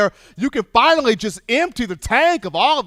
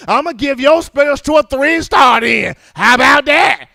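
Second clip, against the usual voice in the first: Scott Cochran yelling; 5 semitones higher, 7 dB louder than usual. Retold or imitated. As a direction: fire up a tired player at the top of your lungs. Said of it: "Scott Cochran going".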